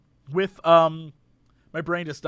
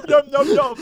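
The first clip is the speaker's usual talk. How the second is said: dazed yum; 5 semitones higher, 5 dB louder than usual. Retold or imitated. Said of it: "and he's like".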